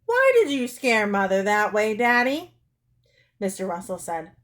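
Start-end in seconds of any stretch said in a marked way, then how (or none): 0.0-2.5 put-on stern child's scolding, louder; raised-voice reproach. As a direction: demand an explanation sternly. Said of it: "Anne said sternly".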